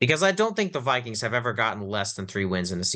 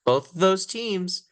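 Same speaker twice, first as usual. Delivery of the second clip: excited; 11 semitones higher than usual. Real, not acted. Joking about tanking for the top pick.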